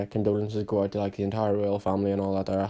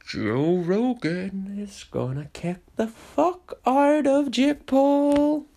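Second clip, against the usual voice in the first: fight announcer; 12 semitones higher, slower than usual. Pretend. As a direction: draw it out like a ring announcer.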